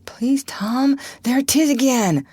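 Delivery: high scared whisper; pleading whisper. A narrator's reading. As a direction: beg him in a frightened hush. Huck begs in fear.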